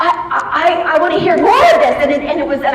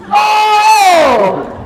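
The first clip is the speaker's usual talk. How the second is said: surprised; 7 semitones higher, 3 dB louder than usual. Real, not acted. Realizing who Brett Cooper is.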